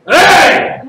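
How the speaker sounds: short, high loud shout; hammed-up Italian exclamation; exclaiming. Shown as a demonstration. Demonstrating the letter I as exclamation.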